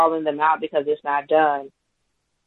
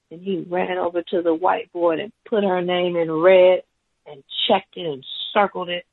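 ordinary talk, nothing marked

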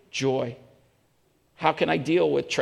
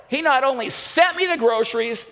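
acted delight, pitched up; mildly jubilant; 7 semitones higher than usual. Elderly lady answering her atheist neighbor, mildly jubilant. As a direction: crow about it in a raised voice.

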